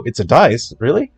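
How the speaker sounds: feigned ignorance. Retold or imitated. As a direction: play dumb, as if just finding out. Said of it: "I pretended to not know".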